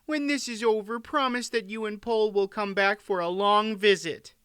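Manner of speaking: high-pitched queen's request; high, earnest queen voice; entreating queen. A narrator's reading. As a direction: plead for a promise in a high voice. Queen begs friend to visit.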